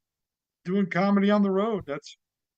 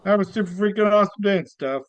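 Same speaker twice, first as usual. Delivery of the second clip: comedy character act. Acted. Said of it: "give us a little bit of your act, of your character".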